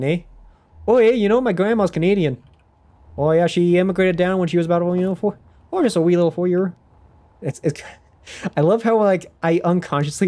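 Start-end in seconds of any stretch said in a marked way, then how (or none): 0.0-6.7 put-on higher, louder Canadian accent slipping toward Scottish; chatty Canadian accent, drifting. Streamer tries Canadian for chat, accent wandering. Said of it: "I like Canadian".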